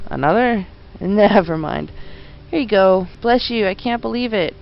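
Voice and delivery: lightly voiced Cockney copper, touched; a London bobby accepting the gift; grateful Cockney policeman. Policeman voiced in game dialogue.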